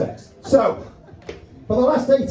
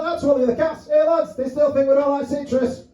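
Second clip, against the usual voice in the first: cat voice; 6 semitones higher than usual. Pretend. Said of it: "He's like".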